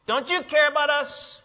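loud, high, accusing cry; indignant disciples yelling at Jesus; rebuking complaint. Acted. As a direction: hurl the complaint at him. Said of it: "This is more like them saying".

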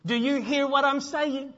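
slow, insistent parental demand; stern parent. Acted. Parent to a child not listening, stern and insistent. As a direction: make the child stop and listen, word by word. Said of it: "like a parent, if you look at your child".

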